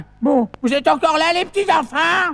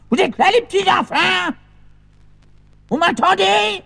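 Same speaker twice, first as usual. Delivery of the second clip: higher calling out into the distance; 5 semitones higher than usual. Acted. Grandpa calling to unseen children. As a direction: shout to be heard.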